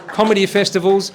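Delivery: lively, projected emcee voice; emcee introduction. Real, not acted. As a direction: introduce the guest comedian to the crowd. Host introduces guest comedian.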